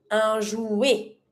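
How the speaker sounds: jouet ending on an open eh, T silent; French "un jouet", no T; E sound ending. Shown as a demonstration. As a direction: say "jouet" as zhoo-eh. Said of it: "E T makes the E sound".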